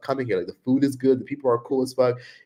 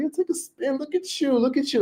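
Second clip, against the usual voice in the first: much higher, teasing sing-song; playful flirt. Retold or imitated. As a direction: coax and admire, high and bright.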